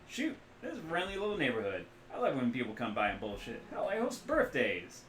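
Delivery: loud, high, boisterous mechanic-doctor voice; hungover rigger. Acted. The rigger doctor jokes to the runners, loud and jolly.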